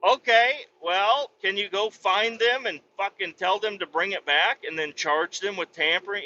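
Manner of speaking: high, sarcastic suggestion. Retold or imitated. Mocking the cop's tampering logic, in high sarcasm. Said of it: "I'm like".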